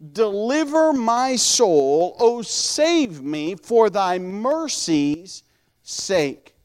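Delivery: drawn-out, solemn verse reading; slow scripture reading. A narrator's reading. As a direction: read it slowly, stretching key words. Reads the verse aloud.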